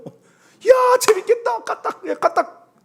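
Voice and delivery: gleeful cry at a scary trail; delighted exclamation. Retold or imitated. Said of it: "감탄하는 사람하고 있으면". (신나서 높게 외치는 감탄)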